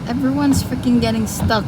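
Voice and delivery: venting at the stuck cars; frustrated. Real, not acted. Stuck in deep snow.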